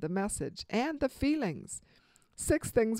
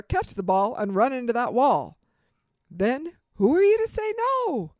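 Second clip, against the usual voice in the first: fervent quote; 8 dB louder than usual. Retold or imitated. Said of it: "was talking about his coach when he said".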